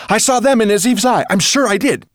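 put-on high, loud boyish outburst; loud, eager calling out; excited cry. A narrator's reading. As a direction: cry it out at the top of your pitch. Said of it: "cried Ben".

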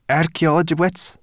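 high, loud, incredulous creature voice; puzzled brownie girl. Acted. Sorrel questioning Ben about humans, puzzled. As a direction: pipe up, baffled by the odd word.

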